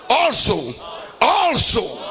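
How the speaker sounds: loud call of also; shouted response. Real, not acted. Preacher leading the congregation's shout, loud. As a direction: shout it back with the crowd. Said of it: "Everybody shout".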